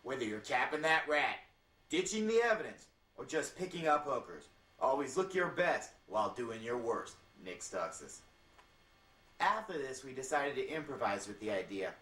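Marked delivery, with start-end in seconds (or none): 0.0-8.2 commercial voiceover. Acted. Narrator reading a tux commercial's script, voiceover. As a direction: read it like a mock TV spot. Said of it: "The voiceover was to read".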